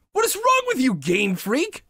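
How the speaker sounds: crying out again, leaning on wrong; shouting through real tears; teary shout. Real, not acted. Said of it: "I'm tearing up".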